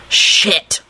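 stunned, airless gasp. A narrator's reading. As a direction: gasp the word out in shock. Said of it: "he gasped out".

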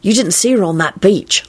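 mildly dreamy admiration; lightly lovestruck reverie. A narrator's reading. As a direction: drift off thinking of a beloved. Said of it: "Lupin replied dreamily".

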